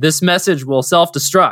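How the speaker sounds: normal talking voice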